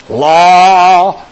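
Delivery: loud mock objection; mocking objector. Imitating a church objector, loud mock scoff. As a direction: toss it out like a scoffer. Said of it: "Somebody said".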